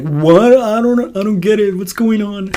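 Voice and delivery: mock confusion, voice jumping up; confused listener. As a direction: play someone who can't follow at all. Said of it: "but not like".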